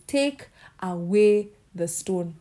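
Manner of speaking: slow, weighty command; commanding Jesus. Acted. Preacher voicing Jesus at the grave, slow commanding. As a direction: lay down the order slowly, like Jesus at the tomb.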